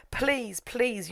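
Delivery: high-pitched acted plea; mock pleading. Ladonia begs Marion to come back, high mock pleading. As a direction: draw out the begging, pitched well up.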